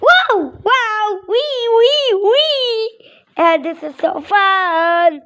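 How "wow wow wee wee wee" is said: high excited wees with laughter; gleeful wee. Pretend. Child voicing birds sliding down, high laughing wees. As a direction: squeal with glee as if sliding.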